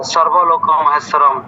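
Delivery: slow, careful সর্বলোক মহেশ্বরম; the verse as students say it; imitating recitation. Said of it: "আমি শ্লোক বলার সময় শুনতে পাই".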